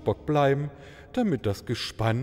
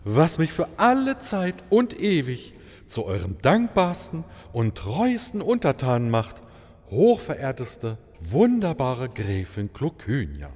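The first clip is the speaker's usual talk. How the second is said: effusive flattery. Acted. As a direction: lay the flattery on thick. Maharaja flatters countess.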